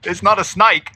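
attempted Australian accent; Aussie twang, half-sure. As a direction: put on a light Aussie accent. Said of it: "do it in your Australian accent".

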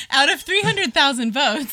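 slow, high, laughing through it; can barely get the words out. Real, not acted.

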